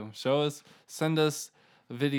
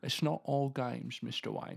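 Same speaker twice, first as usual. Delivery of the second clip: lightly voiced British butler; a hint of an English butler, slurred s sounds; Michael Caine; 4 dB quieter than usual. Butler cautioning Mister Wayne, light Michael Caine impression. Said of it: "Michael Caine".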